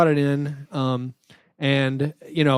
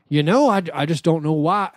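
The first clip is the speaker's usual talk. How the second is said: put-on Southern accent. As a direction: quote an older man in a mild Southern accent. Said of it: "that's my one Southern accent".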